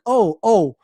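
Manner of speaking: loud, mocking wrathful God, spitting out the insults; hammed-up angry God, slowing down on the snakes; furious God. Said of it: "God was like".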